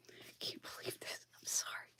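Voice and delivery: breathless unvoiced whisper, almost gone. Real, not acted. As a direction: drop to a whisper as if catching yourself. Worked-up rant collapses into whisper.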